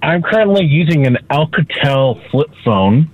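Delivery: phone speaker sound; talking through a speakerphone. Real, not acted. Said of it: "I'm on speakerphone with it".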